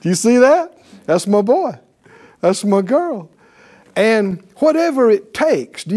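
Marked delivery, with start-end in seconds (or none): 0.0-3.3 lightly voiced delighted God, laughing; a hint of God cheering, with laughs; proud Lord. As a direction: brag like a proud father nudging a friend. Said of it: "I can almost see the Lord punching Michael and go".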